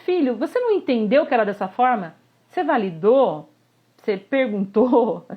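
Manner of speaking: parent half-scolding son; mock scolding parent. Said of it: "a comunicação".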